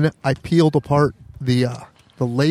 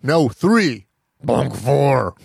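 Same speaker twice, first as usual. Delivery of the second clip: talking bear voice; much slower than usual. Retold or imitated. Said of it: "the bear can talk, but can't talk well".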